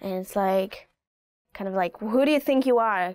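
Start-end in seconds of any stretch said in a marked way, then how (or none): 2.0-3.1 challenging. Shown as a demonstration. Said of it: "very Israeli kind of a gesture".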